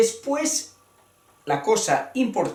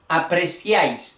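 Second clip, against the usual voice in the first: apreciáis stressed on the A, then falling. Shown as a demonstration. Teacher gives an example verb, stressing the A in apreciáis. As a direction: land firmly on -áis in apreciáis. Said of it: "apreciáis en la A".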